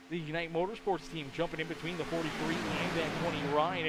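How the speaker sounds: brisk play-by-play call; steady live sportscaster read; race commentary. Acted.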